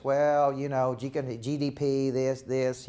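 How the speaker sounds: halting, flat policy talk; stiff Bush. Retold or imitated. Coach mimicking Bush talking GDP at the debate. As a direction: mumble numbers from behind a podium. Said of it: "talked like this".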